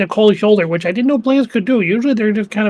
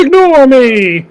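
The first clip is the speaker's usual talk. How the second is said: mock shadow voice; 4 semitones higher, 7 dB louder, much slower than usual. Player mocks shadow's plea.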